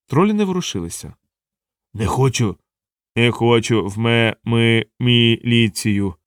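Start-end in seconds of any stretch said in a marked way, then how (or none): 1.9-6.1 slow stumbling refusal, very slow; lightly voiced troll stammering no; a dim troll balking at the militia; reluctant troll. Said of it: "заперечував Боксит".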